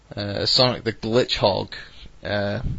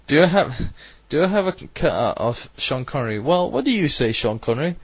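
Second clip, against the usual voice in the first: Sean Connery impression; 4 semitones higher than usual. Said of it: "worst Sean Connery accent ever".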